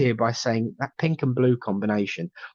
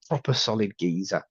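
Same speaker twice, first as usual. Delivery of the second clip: Cockney geezer; 2 semitones lower than usual. Retold or imitated. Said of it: "the most inaccurate accent, tone, and vernacular".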